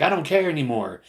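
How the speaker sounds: high-pitched mock outburst; imitated yelling. Older protester defying younger man, mock yelling. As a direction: retell his defiant cry. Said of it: "he was just yelling".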